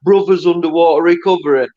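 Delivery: Brothers Underwater Recovery in a thick Northern Irish accent. Shown as a demonstration. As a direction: say Brothers Underwater Recovery with a strong Belfast lilt. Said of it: "He laughs at me every time I say that 'cause of my accent".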